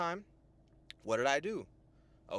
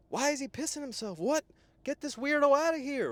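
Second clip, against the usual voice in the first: disgusted woman; 10 semitones higher, 4 dB louder than usual. Retold or imitated. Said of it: "She's like".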